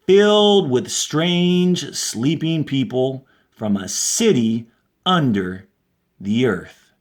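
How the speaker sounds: slow, expressive read-aloud for the class; story reading. A narrator's reading. Teacher reads a science fiction excerpt to her class, expressive storytelling.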